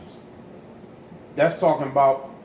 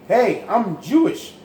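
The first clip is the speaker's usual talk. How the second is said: mock TV commercial voice; 3 semitones higher, slower than usual. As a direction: ham it up like a cheesy eighties ad. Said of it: "They used to have a commercial".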